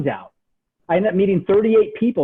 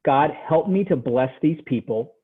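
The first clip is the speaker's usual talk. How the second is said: lower-pitched, understated prayer; quick prayer; 4 semitones lower, 3 dB quieter than usual. Retold or imitated. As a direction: retell a short prayer in a lowered voice. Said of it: "I would say a quick prayer".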